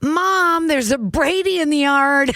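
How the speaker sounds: high, drawn-out call to Mom; iconic movie line. Acted. Quoting the Brady Bunch movie, high tattling call. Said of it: "one of the iconic lines from that movie".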